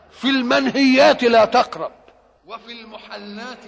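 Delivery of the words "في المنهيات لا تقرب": loud and higher, driving the point; emphatic loud ruling. Real, not acted. Preacher stressing the rule to listeners, loud and higher. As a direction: hammer the rule home.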